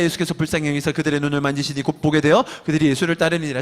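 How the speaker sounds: low, quick Bible reading voice; scripture reading. Acted. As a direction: read the passage like scripture aloud. Reads scripture aloud. (낮고 빠른 성경 낭독)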